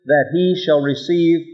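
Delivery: For let not that man think said very slowly, stressing let; deliberate slow stress on let and he; slow emphatic reading. Shown as a demonstration. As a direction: drag out each word, leaning on let. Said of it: "Underscore that".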